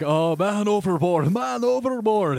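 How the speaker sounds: high, slow Scottish captain call; man overboard shout. Acted. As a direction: belt it like a ship captain. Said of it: "the captain is like".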